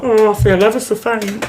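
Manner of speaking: hammed-up feeling faint; mock faint. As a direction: put on a faint, woozy wail. Acting out feigning faintness on bus.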